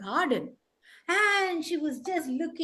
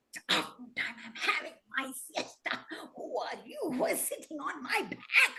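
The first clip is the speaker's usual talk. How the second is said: groggy, softer grumble; lightly voiced drowsy stick; sleepy stick, grumbling; 5 dB quieter than usual. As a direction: grumble as if woken from a nap. Grumpy stick woken from siesta.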